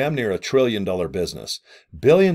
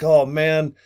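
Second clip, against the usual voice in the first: higher-pitched hyped-up sales pitch, lightly acted; mock excitement; 4 semitones higher, slower than usual. Seller hyping a brand to recruits, mock excited. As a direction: play at getting people excited, breaking into a laugh. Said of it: "getting people excited like".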